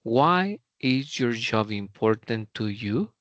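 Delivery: Why said strong, the voice easing down to you; teacher model of a WH question fading out; falling intonation. Shown as a demonstration. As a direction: lead with Why, then soften to the end. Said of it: "empezamos fuerte".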